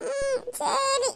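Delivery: put-on slow, sniffly child's consent; sulky little-girl yes, acted; tearful reluctant agreement. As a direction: give in with a small whimper. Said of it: "அது கொஞ்சம் சிரிச்சுக்கிட்டு தான்".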